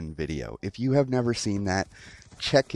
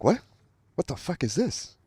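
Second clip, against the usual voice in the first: shocked what; 8 semitones higher than usual. Retold or imitated. Shocked reaction to offered acid.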